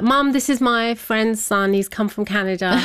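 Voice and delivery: cheerfully casual, nothing to see here; happy and chirpy. Retold or imitated. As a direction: act breezy and chirpy to mum. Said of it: "all very happy and chirpy".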